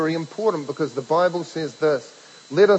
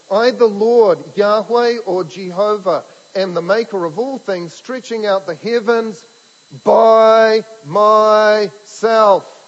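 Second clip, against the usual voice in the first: slow, loud, higher voice of God declaring "by myself"; booming proclamation; 3 semitones higher, 5 dB louder than usual. Acted. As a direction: proclaim it like God speaking from on high. Preacher proclaims Isaiah's words of God.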